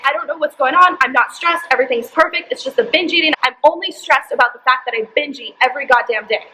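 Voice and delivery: half-replayed angry denial to the therapist; losing it. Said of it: "So I kinda lost it on her".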